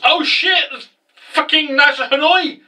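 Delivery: high, urgent alarmed cry; excited alarm. Retold or imitated. Ignis spotting the Hanoi in class, high alarmed yelp. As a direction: spot the enemy and yelp. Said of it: "Ignis then goes".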